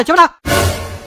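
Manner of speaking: a slow, whispered hush; hushed order. Acted. Shop owner whispering at the rude tempo man to be quiet. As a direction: shush him in a slow whisper.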